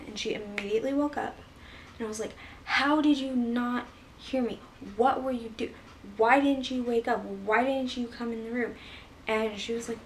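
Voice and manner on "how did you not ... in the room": angry demand. Retold or imitated. Twelve-year-old confronting her mom, angry accusing questions. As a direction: confront her, upset and indignant. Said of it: "I was pissed off".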